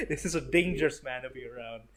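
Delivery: light laugh under the words; laughing through it. Real, not acted. Reviewer still laughing about the Punisher. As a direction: keep chuckling as you say it.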